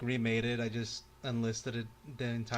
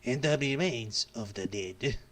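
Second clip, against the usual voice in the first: ominous narration; slower than usual. Acted. Ominous comic narration, slow.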